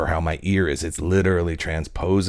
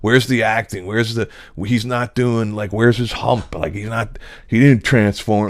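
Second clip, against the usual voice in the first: mocking heckler; 4 semitones higher, 5 dB louder than usual. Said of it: "that douche in the crowd to be like".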